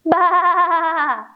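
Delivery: high bleating sheep; sheep baa. Acted. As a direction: bleat it again like a lamb. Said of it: "And one more time".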